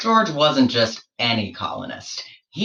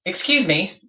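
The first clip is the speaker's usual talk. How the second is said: higher, fussy scientist voice; pompous explorer questioning; 3 semitones higher, faster than usual. Acted. George interrogating the platypus about its kind, fussy higher voice. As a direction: probe like a fussy naturalist, pitched up.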